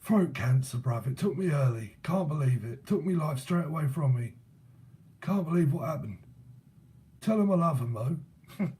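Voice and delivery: lightly voiced cockney gaffer; a hint of old London geezer; imitated cockney accent. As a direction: put on a matey London lament. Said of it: "he talks a bit like that".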